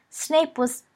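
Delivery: high, cut-off protest; complaining. A narrator's reading. Pupil protesting to his professor, complaining. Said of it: "Sirius complained".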